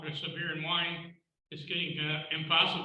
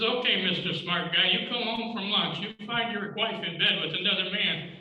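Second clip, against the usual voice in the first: higher, mocking challenge to a know-it-all son; sarcastic father; 4 semitones higher than usual. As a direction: needle him with sarcasm. Father's punchline retort in joke.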